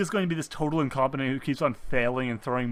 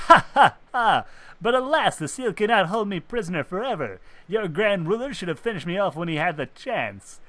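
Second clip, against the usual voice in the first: gloating villain; 3 semitones higher than usual. Acted.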